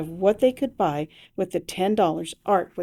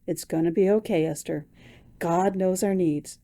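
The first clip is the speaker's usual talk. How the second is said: reassuring. Acted. Husband comforting wife.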